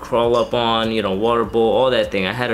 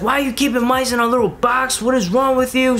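high-pitched mock mom freaking out; mimicking a frantic mother; imitating mom; 12 semitones higher than usual. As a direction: squeak it out like a panicked mom. Mom freaking out about mice.

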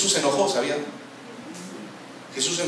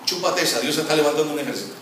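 taunting the devil. Pretend.

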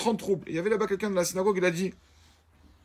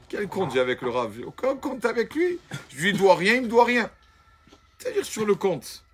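higher, indignant disbelief; baffled rich man; 5 semitones higher, 3 dB louder than usual. Acted. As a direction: protest that he owes the rabbi nothing.

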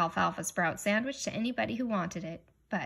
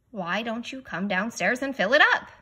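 coaxing father; 3 semitones higher, 7 dB louder than usual. A narrator's reading. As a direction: call him down to dinner warmly.

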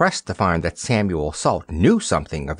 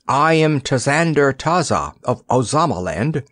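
proud announcement; 5 semitones higher than usual. Acted. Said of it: "announced the boy proudly".

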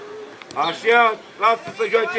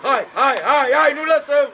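urging call; 4 semitones higher, 3 dB louder than usual. Real, not acted. Urging players during play.

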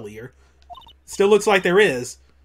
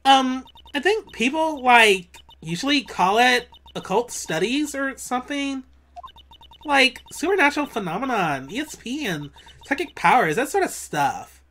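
put-on Valley Girl voice; 4 semitones higher than usual. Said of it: "I gotta do a Valley Girl voice".

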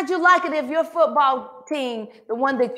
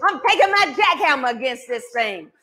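shouted cha prayer; 3 semitones higher than usual. Shown as a demonstration. Preacher shouting chas when communion is out of reach. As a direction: fire off the chas fast.

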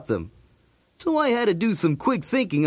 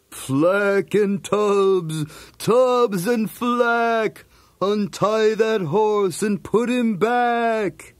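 very slow, drawn-out ghost voice; ghostly voice; 2 semitones higher, much slower than usual. Acted. Barley in the hayloft scaring the thieves, slow ghostly voice. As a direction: stretch every word like a haunting spirit. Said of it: "he spoke in a ghostly voice".

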